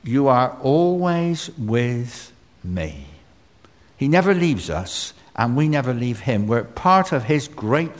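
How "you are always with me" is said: slow, savoured. Shown as a demonstration. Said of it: "those two truths are so special".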